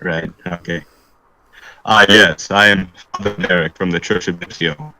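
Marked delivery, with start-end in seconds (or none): 1.9-4.9 lower, earnest cleric; a solemn father pleading his case; priest voice. Acted.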